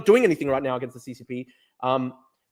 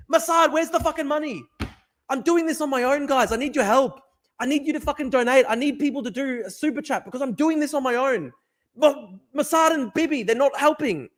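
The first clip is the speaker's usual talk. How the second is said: mock desperate plea; 8 semitones higher than usual. Real, not acted. Mock-begging for money.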